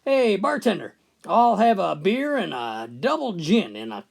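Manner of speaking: mild call to the bartender. Retold or imitated. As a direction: hail the bartender over the noise. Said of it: "calling out to the bartender".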